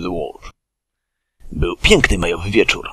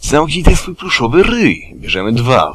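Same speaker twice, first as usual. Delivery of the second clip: growled; 6 semitones higher, 3 dB louder than usual. Acted. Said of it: "warknął Tygrysek".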